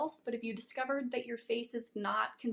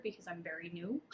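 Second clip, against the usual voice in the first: laughing at herself; 3 semitones lower, 6 dB quieter than usual. Real, not acted. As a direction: laugh through the joke. Self-deprecating joke with laugh.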